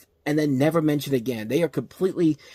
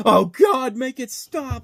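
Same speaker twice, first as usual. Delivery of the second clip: mock scream; 9 semitones higher, 3 dB louder, much slower than usual. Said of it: "just hear Steve Zahn just screaming at the top of his lungs".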